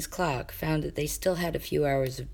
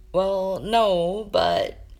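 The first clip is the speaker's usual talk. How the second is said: louder, faltering objection; flustered protest; 5 semitones higher, 6 dB louder, much slower than usual. Acted. Jaden caught out by Kane, a loud flustered start. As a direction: start to protest then stall.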